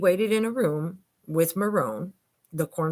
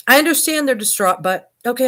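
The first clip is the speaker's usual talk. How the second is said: exasperated dispatcher; 6 semitones higher, 9 dB louder than usual. Retold or imitated. Dispatcher pressed about distraught people.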